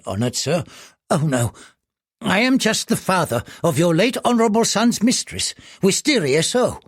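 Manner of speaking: put-on high, humble old caller; high, ingratiating old man's voice; wheedling old man. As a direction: flatter the powerful man on the phone. Old man speaking on the phone.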